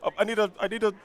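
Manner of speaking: struggling, badly faked Irish accent; attempted Irish accent. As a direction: flounder through a mock Irish accent. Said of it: "do an Irish accent".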